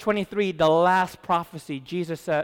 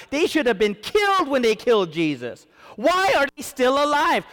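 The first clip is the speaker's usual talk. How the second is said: rising, louder preaching, building to a cry; full-force preaching; 6 semitones higher, 3 dB louder than usual. Acted. Preacher pressing the congregation, building to a near shout. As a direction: drive it home to the congregation, louder and higher.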